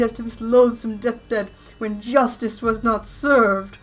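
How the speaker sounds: high, loud, slow spectral wail; ghost voice. Acted. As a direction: moan it like a wronged ghost. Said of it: "ghost voice".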